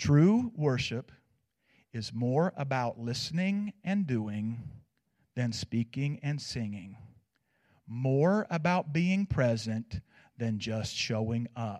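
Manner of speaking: very low, slow, measured, unhurried and deliberate. His wife says he says this too fast, so he repeats it: slowed down. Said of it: "I'm going to slow down".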